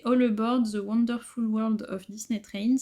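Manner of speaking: English title in a French speaker's shaky English accent; self-mocked English accent. Real, not acted. Presenting a Disney book to viewers, in a French-accented English attempt. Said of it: "avec mon accent anglais".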